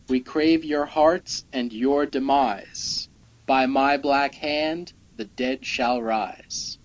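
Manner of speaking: dramatic recitation. Acted. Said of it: "Very good".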